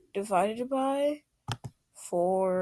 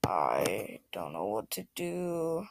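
whisper; 12 semitones lower, 6 dB quieter than usual. Real, not acted. Bored kid talking to himself.

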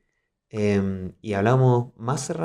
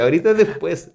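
wry translation; 5 semitones higher, 3 dB louder than usual. Retold or imitated. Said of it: "Eso quiere decir".

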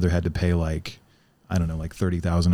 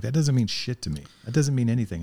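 dismissive; 6 semitones higher than usual. Retold or imitated. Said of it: "I'd be like".

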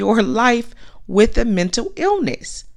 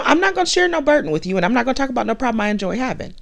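mock refusal; 3 semitones higher, much faster than usual. Acting out friend refusing to share.

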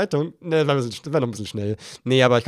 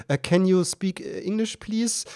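pleading; 8 semitones higher, slower than usual. Retold or imitated. Pleading with toll operator.

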